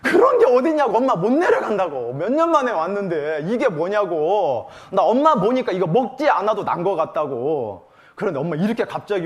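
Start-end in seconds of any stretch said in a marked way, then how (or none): 0.0-7.9 pleading through laughter, a bit louder; laughing protest. Retold or imitated. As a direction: beg her to stay while laughing. Daughter protesting to mother.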